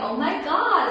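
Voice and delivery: light mock Valley Girl gush; tossing off a quick Valley Girl "Oh my God"; a hint of a California Valley Girl. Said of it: "it's kinda like the Valley Girl".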